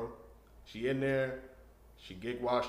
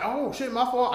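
startled apology; 12 semitones higher, 5 dB louder than usual. Retold or imitated.

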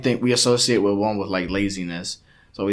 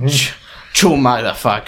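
imitated Latino-accented insult. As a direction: curse in broken Latino English. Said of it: "that broken English".

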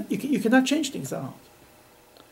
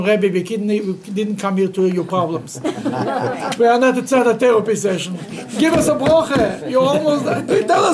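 laughing mock demand; 3 semitones higher, 6 dB louder than usual. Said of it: "they told him".

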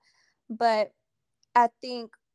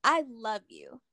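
"I love you" said whole and sincere, falling at the end; mean every word of "I love you"; a wholehearted "I love you"; full-chest I love you. Shown as a demonstration. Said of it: "I say it with my full chest".

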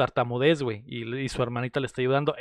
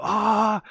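mock scream; 6 semitones higher than usual. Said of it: "se escucha un grito".

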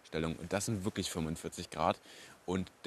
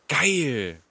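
loud, high cheer; excited shout; 6 semitones higher, 9 dB louder than usual. Real, not acted. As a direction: shout it out with joy. Cheering about the cheap price.

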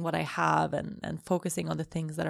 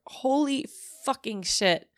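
exclaiming; 6 semitones higher, 3 dB louder, slower than usual. Real, not acted. Overwhelmed gratitude outburst.

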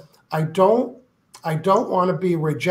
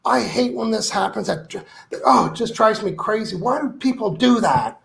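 mock frustrated rant; 4 semitones higher than usual. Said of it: "if you get ticked off and say".

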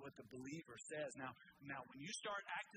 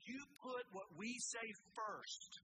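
preacher voicing the king's contempt; Nebuchadnezzar mocked; 7 semitones higher than usual. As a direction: sneer it like a haughty king. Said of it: "He was saying".

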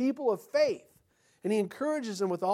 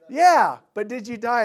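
mock snarky retort; 5 semitones higher, 12 dB louder than usual. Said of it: "And I".

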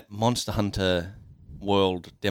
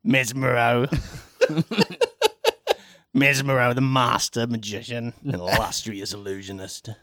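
louder stage magician voice with a laugh; showman magician voice; 2 semitones higher, 3 dB louder than usual. Acted. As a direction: announce yourself like a flashy magician. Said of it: "This is my character voice".

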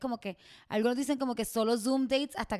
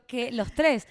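ordinary talk, nothing marked

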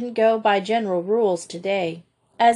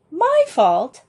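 indignant; 3 dB louder than usual. Acted. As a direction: bristle at the blame. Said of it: "demanded her sister indignantly".

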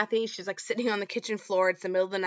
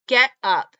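yelling at daughter; 4 semitones higher, 9 dB louder than usual. Retold or imitated. Mom yelling daughter out of bed.

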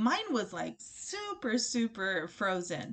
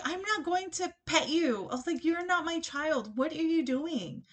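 higher-pitched, incredulous retold protest; raised-pitch mock indignation; indignant refusal; 5 semitones higher than usual. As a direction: act out pushing back in disbelief. Retold refusal to pet her date.

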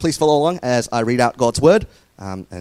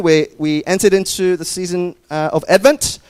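New Zealand accent; 4 semitones higher than usual. Real, not acted. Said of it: "did I say that as a New Zealand accent".

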